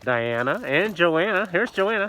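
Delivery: muffled behind a mask; through a face mask. Real, not acted. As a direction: speak through a cloth mask. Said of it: "If you guys can hear me through this mask".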